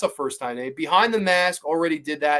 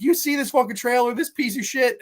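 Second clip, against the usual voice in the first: higher-pitched retold outrage; retold rant; 7 semitones higher than usual. Streamer retelling his salty editor's text about a trailer, retold rant. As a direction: imitate a mildly heated rant. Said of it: "he went off".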